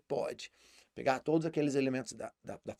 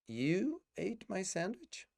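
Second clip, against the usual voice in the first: high, slow rising question on "You ate my sandwich?"; 5 semitones higher, 4 dB quieter, much slower than usual. Retold or imitated. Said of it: "num tom de indagação".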